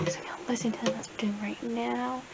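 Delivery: soft unvoiced whisper; quiet whispered vlog aside. Real, not acted. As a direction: whisper it so nobody hears. Whispering while recording.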